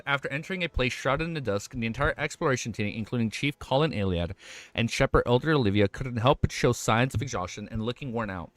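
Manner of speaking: slurred words after eating; slurring. Real, not acted. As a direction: read through a full mouth. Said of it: "I'm slurring my words a lot today".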